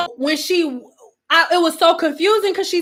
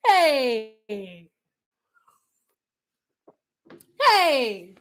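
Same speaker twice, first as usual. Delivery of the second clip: laughing hey; much slower than usual. Real, not acted. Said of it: "fading hey".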